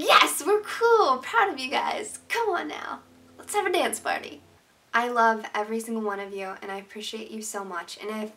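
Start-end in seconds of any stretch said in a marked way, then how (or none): 0.0-4.4 high, slow, bubbly voice, then high and lively; giddy cheer. Retold or imitated. Hearing her subscribers are nice, she squeals with giddy joy. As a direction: cheer like the happiest fan on earth. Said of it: "I'm just like".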